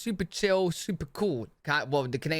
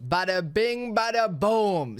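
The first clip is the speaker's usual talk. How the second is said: slow, punchy and louder; playful catchphrase; 5 semitones higher, 3 dB louder, slower than usual. Pretend. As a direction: belt it out like a showman. Echoing the clip's catchphrase.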